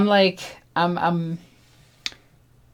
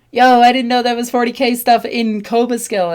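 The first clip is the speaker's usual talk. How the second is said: higher, eager voice; excited clerk; 6 semitones higher, 4 dB louder than usual. Retold or imitated. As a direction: sound like a fan who just found his people. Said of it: "And then he's like".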